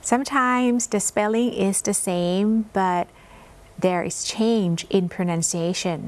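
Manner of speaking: very slow careful English reading; slow read aloud. Shown as a demonstration. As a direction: read it slowly, word by word, for learners. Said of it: "teacher reading English aloud". (อ่านภาษาอังกฤษช้ามาก ชัดทีละคำ)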